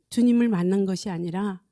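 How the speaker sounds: usual speaking voice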